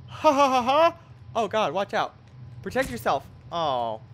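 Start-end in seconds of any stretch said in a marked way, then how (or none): 0.1-1.0 evil laugh. Acted. Game laugh at death.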